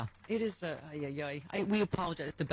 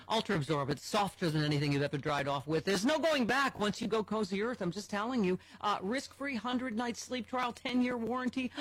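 upbeat sponsor read; 3 semitones higher than usual. Acted. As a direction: sell the sheets warmly to listeners. Host reads sponsor ad.

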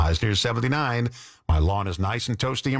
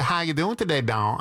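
rough imitation of Georgia women, starting high; Georgia accent; 5 semitones higher than usual. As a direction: attempt a sweet-talking Georgia accent. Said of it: "women at the radio station used to say".

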